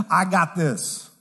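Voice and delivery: slow stubborn quote. Retold or imitated. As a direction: draw out "I got this" slowly and stubbornly. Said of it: "keep in pride saying".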